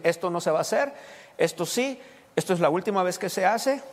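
mildly stern parental warning; firm reprimand. Acted. Father setting rules at home, in a mildly firm reprimand. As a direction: lay down the rule, firmly but controlled. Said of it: "Tengo que llamar la atención".

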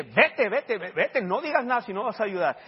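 firm and impatient; retold firm order. Preacher insisting the daughter go, firm order.

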